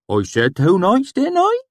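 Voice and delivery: high, loud insistence; testy swineherd. A narrator's reading. Sheem insisting on the date, high and loud. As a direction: correct him sharply.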